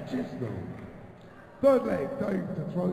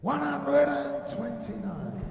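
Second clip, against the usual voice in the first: darts score caller; 3 semitones higher than usual. Real, not acted. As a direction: stretch the number out like a darts caller.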